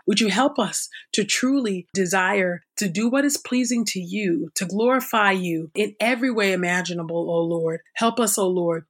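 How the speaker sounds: fervent spoken prayer, rising in pleading; earnest prayer. Real, not acted. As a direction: pray aloud for the listeners, pleading. Spoken prayer after reading.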